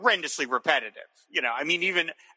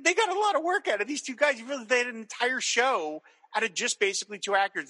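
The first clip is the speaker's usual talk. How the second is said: ordinary delivery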